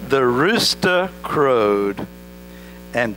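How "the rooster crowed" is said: stretched-out, very slow crowing "The rooster crowed"; hammed-up rooster imitation; mock rooster crow. Shown as a demonstration. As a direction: draw the words out like a rooster crowing. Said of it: "I can't do a rooster sound".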